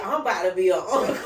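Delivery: quick laughing joy; excited, laughing. Retold or imitated. Brother hears the news, fast and laughing. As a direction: blurt it out fast through a laugh. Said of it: "D J said".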